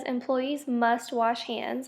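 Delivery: slight stress on "must", read slowly; deliberate reading with "must" picked out. Shown as a demonstration. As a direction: lean a little on "must" in a slow, careful read. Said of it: "speaker is emphasizing how important it is".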